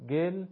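گل with the short Persian o; short Persian vowel in گل; Persian vowel demo. Shown as a demonstration. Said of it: "تلفظ به چه صورتی هست".

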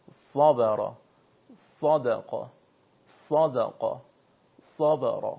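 صبر and صدق with a thick, emphatic first consonant; weight the opening sad of صبر and صدق, word by word; full heavy sad. Shown as a demonstration. Teacher drilling sad for students, deliberate heavy consonant. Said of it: "دقت بکنه که حرف صاد چطور تلفظ شده".

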